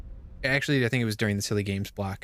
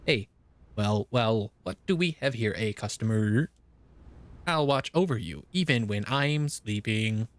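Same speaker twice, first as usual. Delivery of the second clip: flat mechanical robot reading. Shown as a demonstration. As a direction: read it like a robot. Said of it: "let me read this in robot voice".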